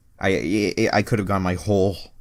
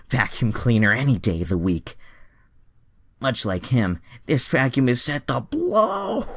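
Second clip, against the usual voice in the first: boastful Andrea; 6 semitones higher, 5 dB louder than usual. Acted. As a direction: ham up a seductive brag. Voicing Andrea's lewd boast.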